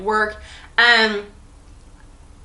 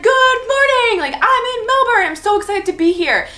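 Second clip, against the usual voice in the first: enthusiastic all caps; 12 semitones higher, 4 dB louder than usual. Retold or imitated. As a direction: gush it like a text typed in all caps. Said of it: "Being the enthusiastic person that I am, like, in all caps".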